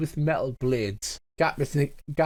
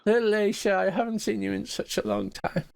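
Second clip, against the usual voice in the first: a lightly voiced old woman, higher; a hint of the old mother, moved to see him; frail old woman; 8 semitones higher than usual. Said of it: "frail old woman voice".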